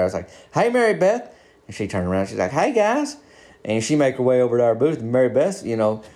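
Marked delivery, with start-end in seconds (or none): 0.5-1.3 high-pitched call across a room; retold holler. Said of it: "I just holler at her". 2.5-3.2 high, sing-out hello; imitated woman's greeting. Woman greets back, voiced by teller.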